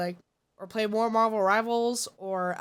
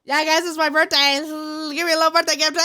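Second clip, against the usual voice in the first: playful begging; 4 semitones higher, 4 dB louder, faster than usual. Real, not acted.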